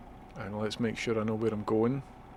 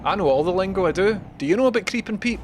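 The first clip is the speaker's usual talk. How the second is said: excited boast; 7 semitones higher, 5 dB louder, faster than usual. Real, not acted. Brags about driving lingo.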